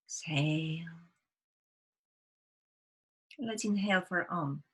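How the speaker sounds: calm breathing guide, long pauses between phrases; guided meditation. Real, not acted. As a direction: gently lead a group through breaths, unhurried.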